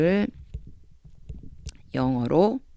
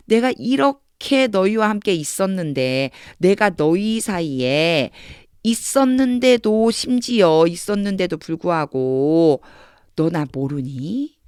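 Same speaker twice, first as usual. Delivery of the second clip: slow, drawn-out acted reproach; disappointed reproach; slower than usual. Teacher as Jesus to Philip after being among them, mild reproach. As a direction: stretch each phrase, building up to the question. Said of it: "요렇게 해석해 주면 되는 거예요".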